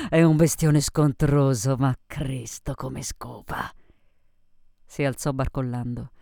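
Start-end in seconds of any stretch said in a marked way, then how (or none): 0.1-3.7 slow, boozy crude bragging; lightly voiced drunk woman; drunken Sophie. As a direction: drag the words out tipsily.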